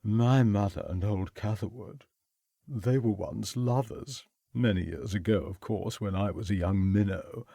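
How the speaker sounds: put-on lightly slurred, drunken confiding; hushed tipsy confession; quiet, slurred. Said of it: "speaking in a quiet, slurred voice".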